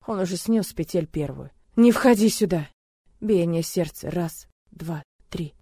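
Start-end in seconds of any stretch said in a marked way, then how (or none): 1.8-2.7 loud desperate cry; shout. Acted. Heroine yelling through the door, loud and desperate. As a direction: yell at him to stay out.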